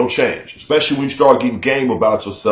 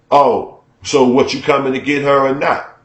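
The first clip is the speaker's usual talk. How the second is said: irritated impatience; 3 semitones higher than usual. Retold or imitated. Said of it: "She's irritated".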